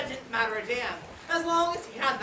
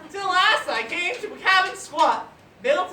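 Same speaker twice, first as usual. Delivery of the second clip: laughing; 7 semitones higher, 6 dB louder than usual. Real, not acted. Laugh heard while reciting.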